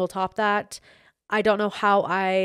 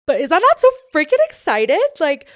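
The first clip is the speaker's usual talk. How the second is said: much higher, loud squeal; excited squeal; 8 semitones higher, 10 dB louder than usual. Real, not acted. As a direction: squeal it out, can't contain it. Gushing about a singer.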